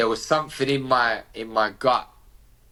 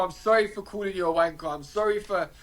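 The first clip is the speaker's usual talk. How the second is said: retold apology, pitched up and urgent; pleading apology; 5 semitones higher than usual. Son apologises to dad going blue, retold pleading. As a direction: plead for forgiveness in a raised pitch.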